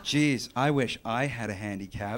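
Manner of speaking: low, slow wistful ad character; envious sidekick. Acted. Friend in a mock product ad, slow wistful envy.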